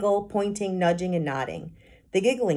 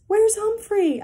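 put-on loud, much higher shout of a child; loud call; 8 dB louder, slower than usual. A narrator's reading. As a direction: shout it out to the whole room. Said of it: "in a voice as loud as A J's".

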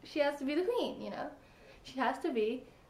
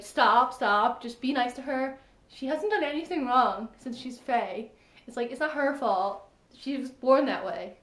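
louder, urgent stop stop; pleading stop; 4 dB louder than usual. Retold or imitated. Fan scolding Chaol to be nice, urgent. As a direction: beg him to back off.

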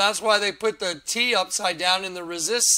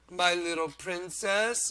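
imitating Schwarzenegger; slower than usual. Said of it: "Arnold Schwarzenegger".

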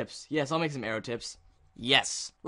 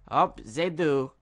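mock German accent; slower than usual. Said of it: "let's go to a German server".

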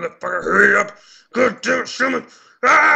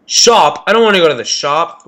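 whiny complaint; 7 dB louder than usual. Real, not acted. Complaining about the shop.

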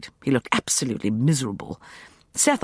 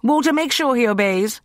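high, loud call; calling after; 10 semitones higher, 5 dB louder than usual. A narrator's reading. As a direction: call after them as they leave. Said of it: "I called after them".

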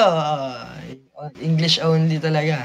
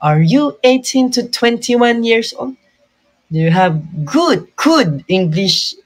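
imitated ad-English accent, raised on the question; put-on ad accent; 4 semitones higher than usual. Vlogger copying the models ad for viewers, put-on English accent. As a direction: mimic the recruiter's English accent, drawing out good English. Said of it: "meron na akong ano, accent".

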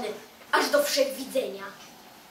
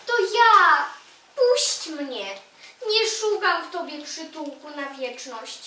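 calling out; 3 semitones higher, 3 dB louder than usual. Acted. Knocking, begging the stone to open.

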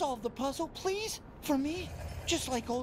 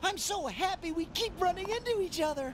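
overjoyed greeting; 5 semitones higher than usual. Acted. Doctor greets the player again, overjoyed. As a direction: gush at seeing a friend again.

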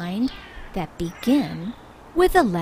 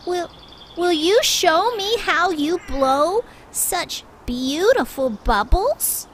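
timid request; 7 semitones higher than usual. Acted. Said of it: "said Badger".

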